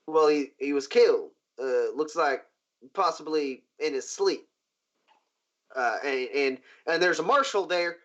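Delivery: stammering, halting report full of restarts; flustered guard. Acted. Guard explaining the killing to his boss, flustered. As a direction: fumble nervously through bad news, mildly acted. Nervous guard repeats bad news.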